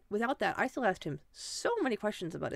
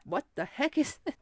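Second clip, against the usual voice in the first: laughing disbelief; 7 semitones higher, 4 dB louder than usual. Real, not acted. Incredulous reaction to tweet.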